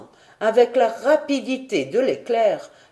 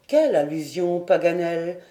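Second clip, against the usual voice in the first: calm voice; 2 semitones lower than usual. Acted. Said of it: "de sa voix tranquille".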